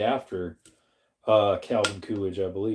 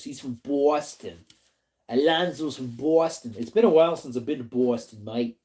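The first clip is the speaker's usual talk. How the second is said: put-on playful Boston accent slipping toward Aussie. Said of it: "your Boston accent sounds more like Aussie".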